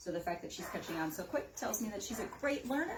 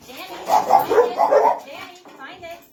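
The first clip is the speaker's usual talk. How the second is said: high, loud cue to the dog; 10 semitones higher, 18 dB louder, slower than usual. Real, not acted. Trainer cueing the dog to find treats, high and loud. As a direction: call it out to pull her attention.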